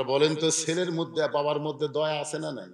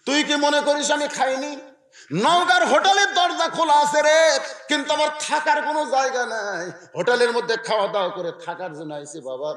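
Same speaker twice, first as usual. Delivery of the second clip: father calling out. Retold or imitated. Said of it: "বাবা চিল্লায় বলে".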